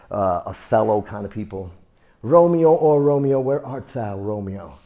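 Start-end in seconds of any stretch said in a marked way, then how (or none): 2.2-4.7 a hint of stage Juliet calling; Broadway Shakespeare voice. Imitating Broadway actors, mild theatrical Romeo call. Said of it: "how they would say it if I spoke to Broadway's kind of people".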